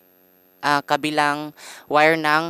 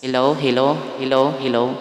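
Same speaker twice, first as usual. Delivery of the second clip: mic test with echo on; echo effect. Shown as a demonstration. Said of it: "natin ng echo, mas maganda".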